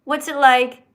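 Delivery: slow, halting mock of the caller; imitated hesitant caller. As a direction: imitate someone stalling over a question. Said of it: "You went".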